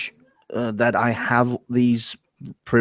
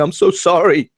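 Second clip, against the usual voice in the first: mock guilty apology; 5 semitones higher than usual. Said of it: "You just walk around going".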